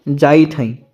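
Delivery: slow Awadhi हम जाइत हैं, said twice; Awadhi phrasing. Shown as a demonstration. Teacher models how Awadhi speakers say this. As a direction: drawl हम जाइत हैं slowly, Awadhi style. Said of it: "अवधी भाषा में कैसे बोलते हैं?".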